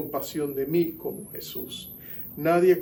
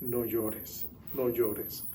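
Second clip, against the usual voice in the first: softer, gentle consoling; tender comfort; 4 semitones lower, 8 dB quieter, much slower than usual. Retold or imitated. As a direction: soothe her softly. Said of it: "Así que Él le dice".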